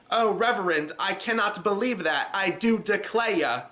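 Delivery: mock Southern Belle, slowing on the last bit; Southern Belle accent. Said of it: "the way she talks is like".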